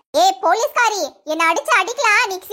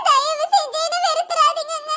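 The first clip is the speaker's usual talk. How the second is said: higher, weepy plea; tearful begging; 4 semitones higher than usual. Acted. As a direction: beg with a breaking voice. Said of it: "என் முன்னாடி அழுது". (அழுதபடி கெஞ்சல்)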